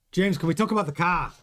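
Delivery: a clumsy put-on Spanish accent for Carlos; barely-there Spanish accent, badly done; terrible Spanish accent. Host imitating Carlos Sainz to his boss, weak Spanish accent. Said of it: "Terrible accent".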